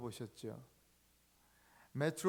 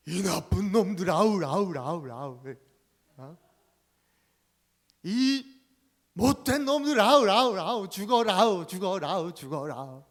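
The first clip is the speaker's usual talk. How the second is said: louder shouted words with echo tails; echoing curse; 3 semitones higher, 14 dB louder than usual. Acted. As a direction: boom it back like a mountain echo. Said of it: "더 우렁찬 소리로".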